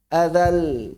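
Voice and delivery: "Adal" with l sounding on briefly; flowing final l. Shown as a demonstration. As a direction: let the l of "Adal" flow a little.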